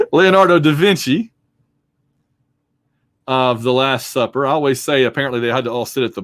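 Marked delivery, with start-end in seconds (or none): 0.1-1.3 laughing. Real, not acted. Joke about DiCaprio.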